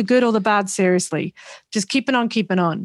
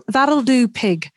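clumsy Northern English film-quote voice; bad Northern accent; 2 semitones higher, much slower than usual. Quoting a favourite line from Babe, bad Northern accent. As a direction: have a poor stab at a Northern English accent. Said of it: "that was the worst Northern accent".

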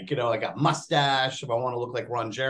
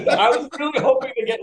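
laughs through the words, higher and faster; laughing; 9 semitones higher, 5 dB louder, faster than usual. Real, not acted. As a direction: talk while cracking up.

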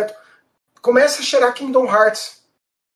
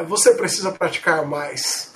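put-on old speech synthesizer; 6 semitones lower, slower than usual. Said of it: "Uma voz sintetizada".

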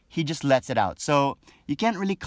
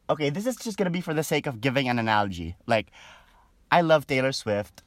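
normal talking voice

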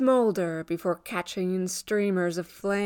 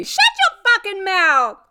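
high, loud angry yell; explosive, high-pitched outburst; furious command; 12 semitones higher, 7 dB louder than usual. Acted. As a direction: cut him off in a rage. Rose cuts off ex, acted quarrel.

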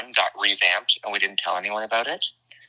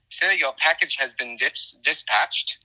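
mock British accent; 3 semitones higher, slower than usual. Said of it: "the different verbiage that they use over there".

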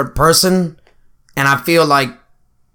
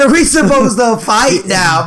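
slow mocking repeat; 8 semitones higher, 3 dB louder, slower than usual. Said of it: "He said".

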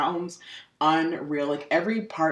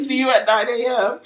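higher, louder, quick playful echo; mock cheery sign-off; 8 semitones higher, 6 dB louder, faster than usual. Host echoing co-host's pretend appointment call, mock cheery. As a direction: toss it out brightly and fast.

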